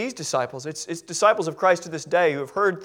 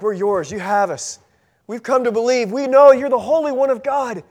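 starts hushed and builds to loud, higher fervent declaration; church's devoted reply; 5 semitones higher, 8 dB louder than usual. Retold or imitated. The church answers Jesus, building from hushed to fervent. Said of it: "we as a church is like".

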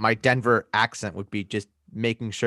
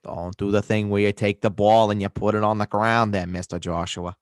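put-on mixed American accent; muddled regional accent. Rating running backs for co-host, mixed accent. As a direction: rate players in a hammy regional accent. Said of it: "tell where your accent's from anymore".

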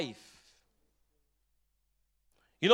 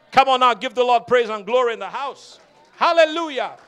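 louder, rousing the congregation; loud rousing call; 5 dB louder, faster than usual. Real, not acted. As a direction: call them to praise loudly. Preacher rouses the congregation.

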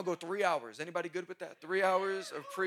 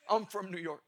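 laughing repeat. Real, not acted. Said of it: "repeats it laughing".

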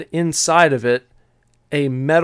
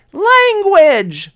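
high, loud scolding shout; manager's yell; 8 dB louder than usual. Retold or imitated. Manager rebukes worker for swearing, high scolding yell. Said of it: "the manager just yelled back at me".

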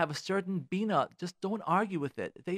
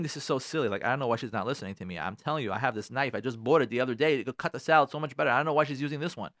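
grumbling inner voice; 6 semitones lower than usual. Pretend. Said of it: "in your mind you're thinking".

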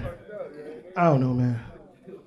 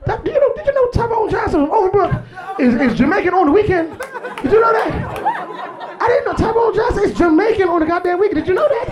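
incredulous mockery; 5 semitones higher than usual. Mocking the fake Jamaican.

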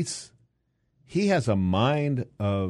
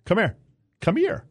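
higher, raised imitation of a son yelling; retold yell; 8 semitones higher, 4 dB louder than usual. Son yells at dad mid-tournament, retold yell. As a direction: mimic an exasperated shout across the court. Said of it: "and he yells".

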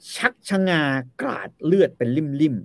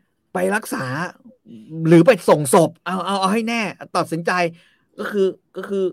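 mock loud taunt; 6 semitones higher, 4 dB louder than usual. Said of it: "พูดกับเสียงดังมากเลยนะ".

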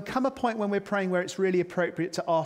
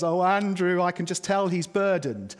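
mock pitying minister; 4 dB louder than usual.

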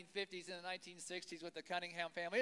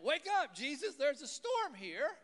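louder, higher, urgent cry to wake him; panicked plea; 5 semitones higher, 4 dB louder than usual. Retold or imitated. Disciples wake Jesus as the squall hits, a panicked loud cry. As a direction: shake him awake in a storm.

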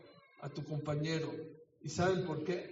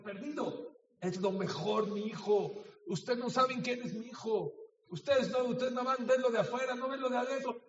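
mother yelling; 2 semitones higher than usual. Acted. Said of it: "a esas señoras les gritó".

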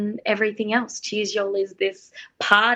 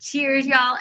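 higher, playful American toast; picked-up American accent; 4 semitones higher than usual. Retold or imitated. Singer back home toasting, in imitated American accent. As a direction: lightly imitate an American y'all, pitched up. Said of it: "I came back after this contract going".

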